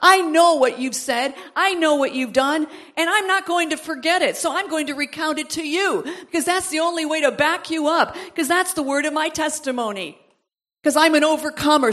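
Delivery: a hint of a roaring witness; bold testimony. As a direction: proclaim it like a man who can roar. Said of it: "He's saying".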